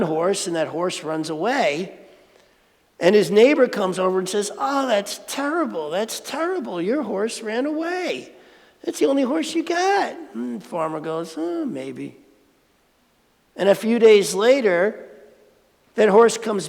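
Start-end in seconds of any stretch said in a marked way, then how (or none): 4.6-10.1 a lightly voiced neighbor, a touch higher and fussing; mild mock dismay at the news; fretting neighbor. Neighbor voiced in Zen story. 11.4-12.2 lower, softer, unbothered farmer; the farmer's even reply; calm farmer. Acted. Farmer voiced in Zen story.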